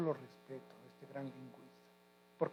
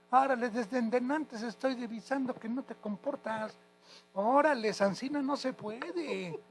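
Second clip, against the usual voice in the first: imitating a teacher scolding, high and loud; mock teacher telling a student off; 7 semitones higher, 5 dB louder than usual.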